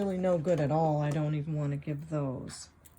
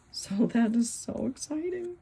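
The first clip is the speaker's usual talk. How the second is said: giddy laugh through words; 6 semitones higher, 3 dB louder than usual. Real, not acted. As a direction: laugh while saying it. Laughing over gold find.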